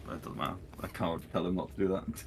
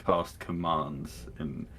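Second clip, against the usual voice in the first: usual speaking voice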